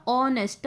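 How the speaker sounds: ऑनेस्ट starting straight on the "o" vowel; silent h. Shown as a demonstration. Teacher showing how it sounds, ऑनेस्ट with silent h. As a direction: say ऑनेस्ट as "on-est", h left unsounded. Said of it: "लेकिन जब इसको बोलते हैं तो ये sound करता है".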